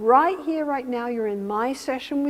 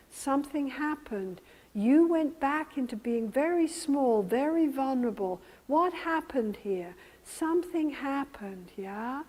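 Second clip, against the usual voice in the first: low and slow; 5 dB quieter than usual. Shown as a demonstration. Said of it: "I go low and slow".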